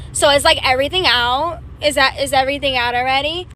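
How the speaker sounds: lightly mimicked shopper with a questioning rise; imitated customer. Shoe shopper questioning a store worker, lightly mimicked. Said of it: "That's exactly how she talked too".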